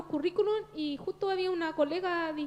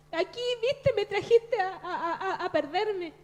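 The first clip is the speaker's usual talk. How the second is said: laughing through words; 2 semitones higher, slower than usual. Real, not acted. Laughs while recalling her complaint.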